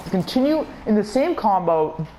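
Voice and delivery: excited gamer building up a point; pumped up. Real, not acted. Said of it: "I'm getting pumped up right now".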